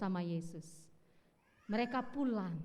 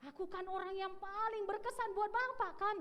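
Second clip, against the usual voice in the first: put-on cocky young man; 10 semitones higher than usual. Young man teases the pastor.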